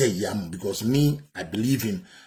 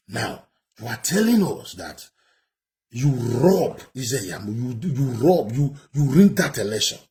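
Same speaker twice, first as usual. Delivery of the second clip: rising anger; 5 dB louder than usual. Real, not acted. Commentator accuses politician of rigging.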